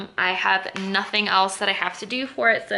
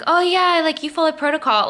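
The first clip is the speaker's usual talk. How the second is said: mocking; 6 semitones higher, 3 dB louder than usual. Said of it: "the C E O, like, is just like".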